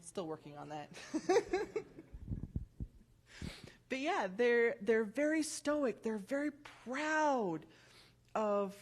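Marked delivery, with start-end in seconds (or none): 0.9-2.9 high airy giggle at herself; breathy laugh. Real, not acted. Laughs at her own slip.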